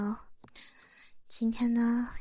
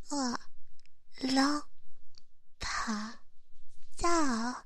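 evil dragon roar; 4 semitones higher, slower than usual. Acted. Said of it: "有些小可爱说想听我的恶龙咆哮啊".

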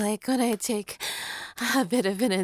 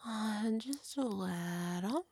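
whispering; 10 dB quieter than usual. Real, not acted. Whispered reply.

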